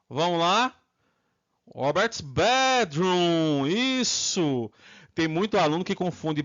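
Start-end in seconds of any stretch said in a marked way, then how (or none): 1.7-3.7 slow model. Shown as a demonstration. Teacher models the answer slowly.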